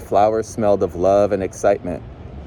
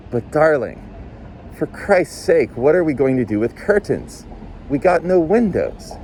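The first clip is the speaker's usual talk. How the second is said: higher, pleading in disbelief; exasperated; 6 semitones higher than usual. Acted. Husband exasperated over curtains.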